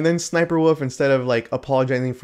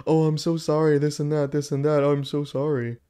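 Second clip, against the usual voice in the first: mock apology; 3 semitones higher than usual. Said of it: "She makes a public announcement".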